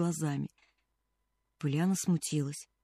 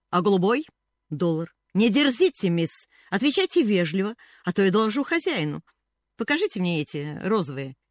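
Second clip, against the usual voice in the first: rude customer; 3 dB louder than usual. Acted. Rude customer scolds shop girl.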